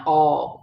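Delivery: "aw" said large in the mouth; large aw sound. Shown as a demonstration. Teacher explaining the A W sound, open aw. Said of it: "large in your mouth".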